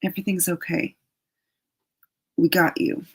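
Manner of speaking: a hint of soothing angel voice; lightly reassure, gently and sweetly; gentle and sweet. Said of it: "they come in very gently and sweetly".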